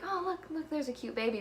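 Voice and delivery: high-pitched retold coo; cooing at a baby. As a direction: imitate spotting a cute baby, high voice. Retold reaction to seeing babies.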